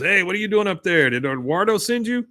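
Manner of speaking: put-on kid. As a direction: call up to someone like a curious kid. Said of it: "this one kid goes".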